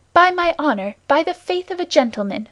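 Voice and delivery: a gentleman pledging his word; earnest, truthful vow. A narrator's reading. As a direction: swear it with full sincerity. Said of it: "with an accent so truthful".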